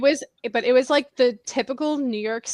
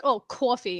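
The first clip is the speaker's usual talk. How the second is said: put-on New York accent. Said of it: "there's people who are like".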